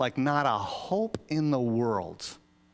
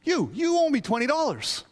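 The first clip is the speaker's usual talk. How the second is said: demanding servant; 12 semitones higher, 4 dB louder than usual. Retold or imitated. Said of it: "And he's like".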